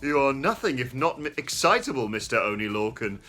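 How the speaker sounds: lightly put-on proper British accent. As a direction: read it as a lightly done, posh-sounding British official. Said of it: "I'll try and do this in a proper British accent".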